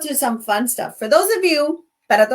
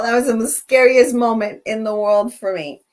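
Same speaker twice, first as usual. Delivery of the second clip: louder, punching scariest; emphatic; 6 dB louder than usual. Real, not acted. Host telling viewers her worst scare, loud and emphatic. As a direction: declare it hard. Reliving the scare, then repeated.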